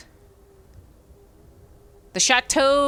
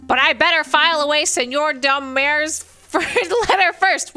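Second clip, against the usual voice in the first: eager bird assistant; 5 semitones higher than usual. Acted.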